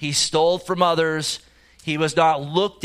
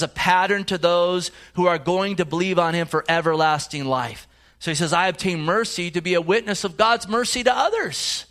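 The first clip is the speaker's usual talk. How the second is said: preaching to the congregation, pitch lifted; rising sermon; 2 semitones higher than usual. Acted. Preacher urging the congregation to accept mercy, fervent preaching. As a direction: build the sermon with growing conviction. Preaching Paul's testimony, voice raised.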